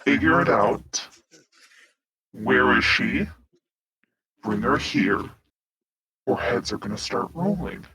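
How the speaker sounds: pointed, measured in-character order. Acted. Captain ordering two escorts to find her, pointed. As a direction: deliver each order with spaced pauses. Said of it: "like, a very pointed".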